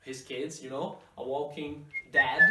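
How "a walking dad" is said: "dad" with open a, played for a laugh; walking dad joke. Shown as a demonstration. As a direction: stress "dad" to show the mistake. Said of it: "I think of a father".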